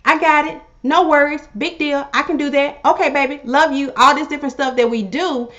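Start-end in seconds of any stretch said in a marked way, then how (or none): 0.0-3.9 bright eager okay, upbeat; chirpy accommodating voice, slightly higher; sweetly agreeable wife saying yes to everything; cheerful yes-wife. Retold or imitated. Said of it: "you're like".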